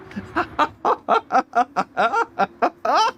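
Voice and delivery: high, rolling burst of laughter; long helpless laugh. Real, not acted. Commentator after a chaotic finish, helpless laughter. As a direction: laugh on and on, unable to stop.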